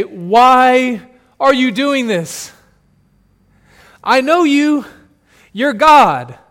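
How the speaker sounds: a grieving parent crying out to God, anguished. Acted.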